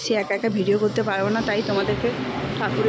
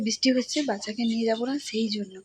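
soft, hushed explanation; hushed talk; 6 dB quieter than usual. Real, not acted. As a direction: keep it down so the sleeper won't wake. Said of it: "আমরা আস্তে আস্তে কথা বলছি". (নিচু গলায়, আস্তে আস্তে)

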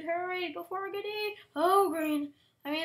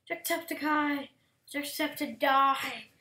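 loud slow call; 6 dB louder, slower than usual. Pretend. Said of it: "That was a bad pun".

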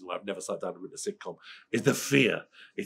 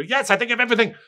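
much higher and louder, exaggerated smugness; mock smug boast; 12 dB louder than usual. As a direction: play up a self-satisfied brag. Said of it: "I'm like that in a taxi".

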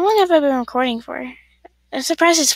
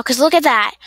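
louder, exasperated; annoyed; 7 dB louder, faster than usual. Real, not acted. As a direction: point it out with irritation. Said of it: "it gets annoying".

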